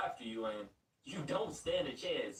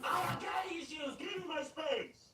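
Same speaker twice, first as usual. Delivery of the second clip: put-on much higher, slow, sulky teen voice; moody emo teen; 13 semitones higher, slower than usual. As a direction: sulk it out, dragging the words. The emo Raven character answers.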